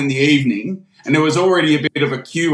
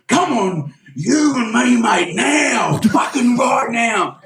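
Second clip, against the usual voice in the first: mock challenge; 4 semitones higher, slower than usual. Bloke challenging Jake to fight.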